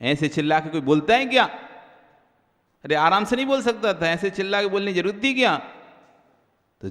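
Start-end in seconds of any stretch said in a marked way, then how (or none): 0.0-5.6 quick, irritated grumble; irritated complaining. Retold or imitated. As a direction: complain fast as if annoyed. Mimics a resentful complaint.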